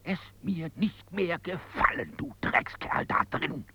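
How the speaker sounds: high, strained outburst of insults; angry scolding. Acted. Man scolding the scoundrel inside him, angry.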